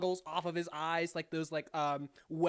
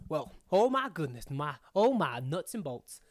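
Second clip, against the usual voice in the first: put-on crazy old prospector; 4 semitones lower than usual. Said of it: "crazy old prospectors".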